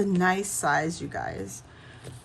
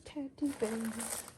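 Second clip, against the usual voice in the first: softer repeat; 3 semitones higher, 10 dB quieter than usual. Shown as a demonstration.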